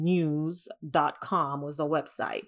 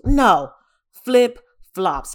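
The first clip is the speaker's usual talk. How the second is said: loud, higher, punched no; loud correction; 4 semitones higher, 9 dB louder, much slower than usual. Real, not acted. Correcting viewers about what she got, loud emphatic no. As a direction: slam the correction home.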